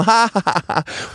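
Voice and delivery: high acted cackle; mock laugh. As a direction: laugh it up, imitating herself. Gjenforteller latter på porchen. (påtatt, høy latter)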